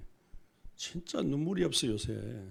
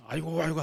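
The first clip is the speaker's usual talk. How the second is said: crude wail; 4 semitones higher, 3 dB louder, faster than usual. Shown as a demonstration. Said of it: "하면 무식해".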